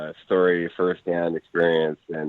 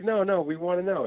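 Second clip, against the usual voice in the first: put-on kids insisting; 12 semitones higher, 4 dB quieter than usual. Kids insisting to reluctant player.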